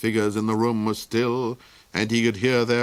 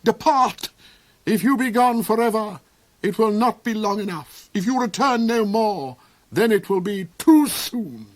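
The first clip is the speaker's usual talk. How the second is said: high, loud raging tirade; shriek; 11 semitones higher, 5 dB louder than usual. A narrator's reading. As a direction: drive them out with fury. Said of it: "he shrieked".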